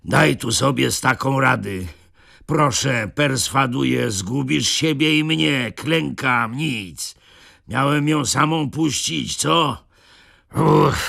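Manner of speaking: put-on high, huffing old nobleman out of breath; winded Zagłoba grumbling; panting, broken voice. A narrator's reading. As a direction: complain between gasps. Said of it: "mówił przerywanym głosem, sapiąc".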